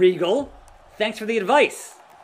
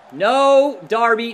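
alarmed shout; 3 semitones higher, 6 dB louder, slower than usual. Real, not acted. Reacting to the game.

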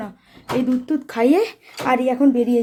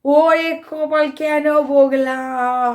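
rueful lament; 3 dB louder, much slower than usual. Real, not acted. Mother regretting scolding her crying baby, slow lament. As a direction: stretch it out, sorry for scolding. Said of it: "regret after scolding".

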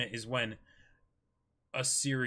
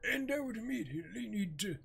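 very high, strained mayor voice, slowed; 12 semitones higher than usual. Acted. Joking with cohost while holding the mayor's squeaky high voice. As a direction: squeeze it up into the mayor's falsetto. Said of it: "put a strain on my vocal cords".

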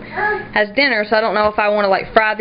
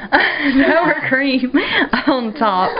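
laughing mid-correction, pitched up; 5 semitones higher, much slower than usual. Real, not acted. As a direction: giggle through the words. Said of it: "Almost said Cool Whip".

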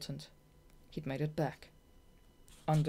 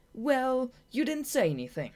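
louder, higher indignant grumble; grumbled; 10 semitones higher, 7 dB louder than usual. Acted. Shade complaining to Marina about losing, indignant grumble. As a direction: sore loser's complaint. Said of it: "grumbled Shade".

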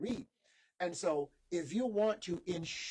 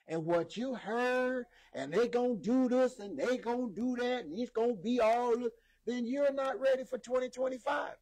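emphatic preaching; 5 semitones higher, 4 dB louder than usual. Acted. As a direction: drive each phrase home to the congregation. Preaches with raised force.

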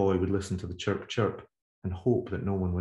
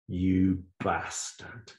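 hissed insult; much slower than usual. Acted. Agnes opening the call to her old lover, hissing with contempt. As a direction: spit it out slowly with contempt. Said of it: "she hissed as an introduction".

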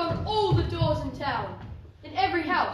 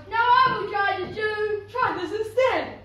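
loud, raised yell; 4 semitones higher, 7 dB louder than usual. A narrator's reading. Second sister demanding her turn at the shoe, yelling. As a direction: yell it out eagerly. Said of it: "who yelled".

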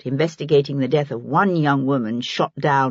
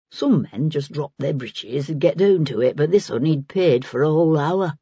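put-on an earthy old woman in dialect; lightly played working woman, musing; lightly voiced Maggie. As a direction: take your time sizing them up, in dialect. Narrator voices Maggie, frank about customers.

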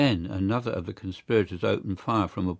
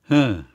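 grunt; 3 semitones higher, 8 dB louder than usual. A narrator's reading. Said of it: "grunted the guard".

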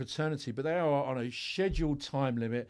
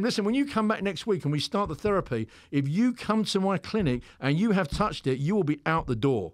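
stern warning; 4 semitones higher, 3 dB louder than usual. Retold or imitated. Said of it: "I have to be that way".

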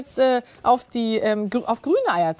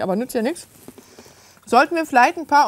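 mouth full. Real, not acted. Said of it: "mit vollem Mund spricht man nicht".

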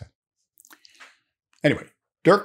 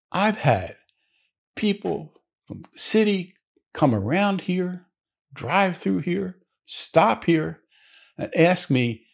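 put-on high-pitched old-timer character voice; old New England man; 9 semitones higher, slower than usual. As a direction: play an old local man, pitched well up. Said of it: "the guy behind the counter, the old New England guy".

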